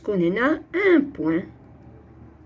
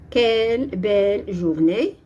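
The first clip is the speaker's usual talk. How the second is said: exclamative. Shown as a demonstration. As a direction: read "Quelle belle journée" as a delighted exclamation, stressing "quelle". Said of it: "c'est une phrase exclamative".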